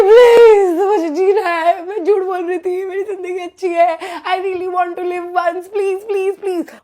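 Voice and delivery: loud crying beg for her life; sobbing plea. Retold or imitated. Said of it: "और अब मैं literally ऐसे कर रही हूँ".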